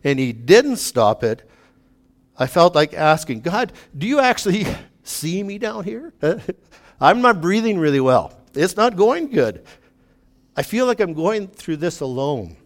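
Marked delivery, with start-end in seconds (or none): 3.4-12.5 higher-pitched, mildly desperate appeal to God; acted panicked plea. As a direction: plead upward as if panic is setting in, half-acted. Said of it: "you're having a panic attack".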